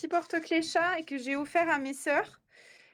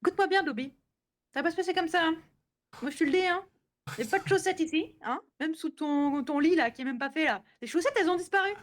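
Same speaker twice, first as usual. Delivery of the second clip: raised, bossy scolding of a servant; stern house mistress; 3 semitones higher than usual. Pretend.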